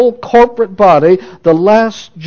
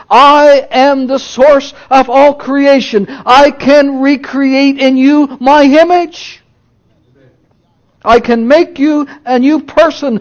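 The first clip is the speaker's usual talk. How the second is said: building preacher's proclamation; 6 semitones higher than usual. Shown as a demonstration. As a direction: proclaim each I am bigger than the last. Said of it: "Now listen to me, you're not gonna wanna miss this".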